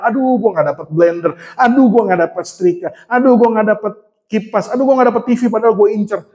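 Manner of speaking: lightly imitated griping colleagues; mock grumbling. Coworkers who missed out on prizes, mildly grumbling. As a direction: moan a little, item after item, in mock complaint. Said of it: "Teman-teman bersungut-sungut".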